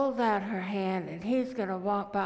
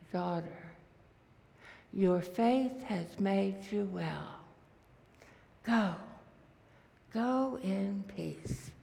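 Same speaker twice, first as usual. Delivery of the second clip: gentle Jesus voice; slower than usual. Acted.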